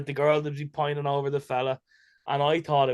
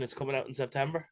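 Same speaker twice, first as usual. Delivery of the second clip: softer, faster hedge; quick quiet aside; 6 dB quieter, faster than usual. Shown as a demonstration. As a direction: throw it away under your breath. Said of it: "well, if it's written".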